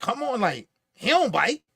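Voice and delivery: brushing it off, he don't bite with a rising tone; dismissive. Retold or imitated. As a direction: wave off the worry like it's silly. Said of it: "It was the way he said it".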